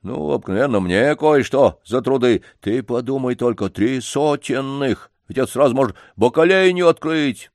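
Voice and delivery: eager janitor. Acted. Janitor voiced in story.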